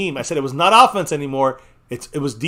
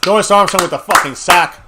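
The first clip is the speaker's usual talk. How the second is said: louder, rising with excitement; excited; 5 dB louder than usual. Real, not acted. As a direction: celebrate the sack. Celebrating the same sack.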